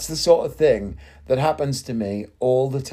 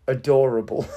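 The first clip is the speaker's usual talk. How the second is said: sarcastic; 2 semitones lower than usual. Retold or imitated. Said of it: "But with a lot of sarcasm".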